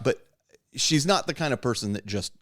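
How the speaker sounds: ordinary delivery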